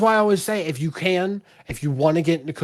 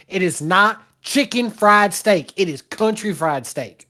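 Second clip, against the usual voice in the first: Southern accent; 3 semitones higher than usual. Real, not acted. Insisting to the host it's country fried, mild Southern accent. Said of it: "You pulled up the accent".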